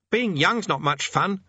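put-on high, fussy old demonologist; fussy old man voice. A narrator's reading. Thursley voiced by narrator.

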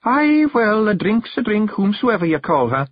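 high-pitched, placating Scots wife; soothing. A narrator's reading. Jeanie offers her husband a drink, soothing. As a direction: humour him in a high Scots voice. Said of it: "said Jeanie soothingly".

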